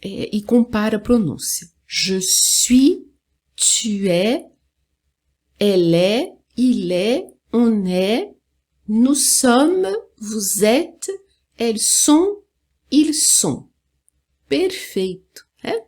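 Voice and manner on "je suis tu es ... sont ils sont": je suis to ils sont, each form held and separate; French pronunciation model. Shown as a demonstration. Teacher repeating so learners can record and compare, French model. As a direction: recite the être forms carefully, endings silent, words linked. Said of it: "agora eu vou repetir mais uma vez".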